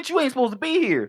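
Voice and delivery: high, fast hostile thug line; tough thug voice. Retold or imitated. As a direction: snap it out like a threatening thug. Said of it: "They were like".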